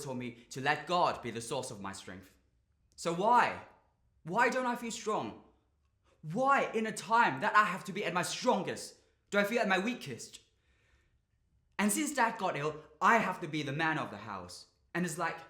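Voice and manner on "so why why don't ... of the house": higher, insistent pleading; exasperated, heartfelt outburst; anguished questioning. Acted. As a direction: demand an answer, voice lifted in frustration. Anguished monologue about coping with ill father.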